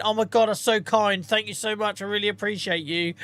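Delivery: high, acted grateful gush; mock gushing gratitude. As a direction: play the properly thankful streamer. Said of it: "What my response should have been".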